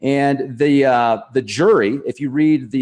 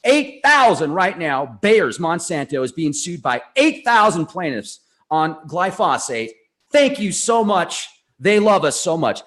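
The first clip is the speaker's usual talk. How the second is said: gleeful, emphatic excitement; excited; 3 semitones higher than usual. Real, not acted. Host relishing the lawsuits, openly excited. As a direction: hammer out the good news excitedly. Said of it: "I'm just so excited right now".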